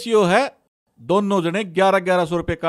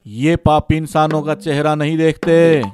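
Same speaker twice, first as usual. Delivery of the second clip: pompous godman voice; 3 semitones lower than usual. Acted. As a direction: speak like a fake baba. Fake godman speaking. (ढोंगी बाबा की भारी आवाज़)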